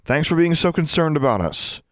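high-pitched fake gratitude; mock-grateful jab; sarcastic. A narrator's reading. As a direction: thank them without meaning it. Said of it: "she said sarcastically".

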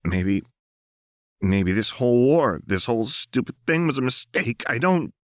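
fighting back tears; Jinx breaking down. A narrator's reading. Jinx telling Lux the war was a mistake, strained voice.

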